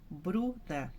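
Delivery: "Bruna" with a long BRU, then a short falling NA; stress on BRU. Shown as a demonstration. Teacher testing a pupil's name, "Bruna" stressed on BRU. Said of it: "então Bru que é forte".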